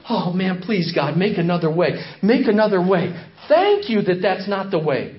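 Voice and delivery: a hint of a relieved villager; lightly voiced relief and plea; relieved hearer. Listeners freed from the law, lightly voiced relief. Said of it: "the ones who knew".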